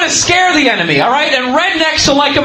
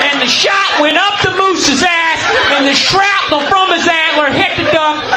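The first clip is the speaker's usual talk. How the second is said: redneck character; 2 semitones higher than usual. Acted. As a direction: brag about the hunt like a good old boy. Redneck character tells hunting story.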